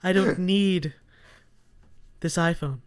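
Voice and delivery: lightly imitated sage, with long pauses; mock Buddhist. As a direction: renounce possessions in measured, separate phrases. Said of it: "he goes Buddhist on me".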